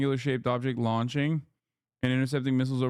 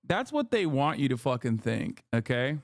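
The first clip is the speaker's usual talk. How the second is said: mock conspiracy insistence; sarcastic. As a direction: sneer it like a paranoid believer. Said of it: "I'm being sarcastic".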